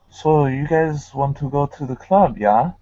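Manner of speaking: light put-on German accent; casual invitation in a mild German accent. Shown as a demonstration. Trying again for the hosts, lightly faked German accent. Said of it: "my, my German accent".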